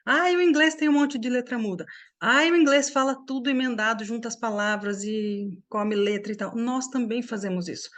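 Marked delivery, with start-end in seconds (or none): 0.0-6.5 mock grumble, pitched up at the start; imitated complaining. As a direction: complain lightly on others' behalf. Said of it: "A gente reclama do inglês".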